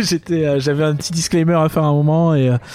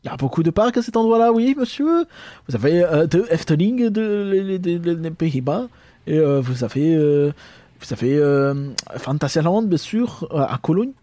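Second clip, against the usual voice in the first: fussy German banker listing parks; German accent. Acted. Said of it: "pas d'accent allemand problématique". (accent allemand exagéré)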